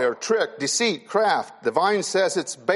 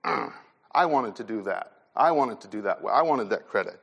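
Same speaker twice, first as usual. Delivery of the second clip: lower, grumbling envy; envious grumble; 7 semitones lower than usual. Retold or imitated. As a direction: mutter it like a jealous rival. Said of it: "and it goes".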